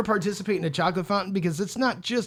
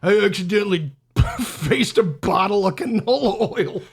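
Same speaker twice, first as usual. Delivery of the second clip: laughing; 3 semitones higher than usual. Real, not acted. Laughing while confessing.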